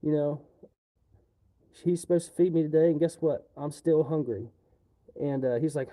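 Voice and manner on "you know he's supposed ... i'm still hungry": louder mock complaint; mock tattling. Coworker complaining to manager, mocking louder whine. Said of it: "she's like".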